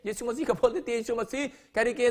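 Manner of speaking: ordinary delivery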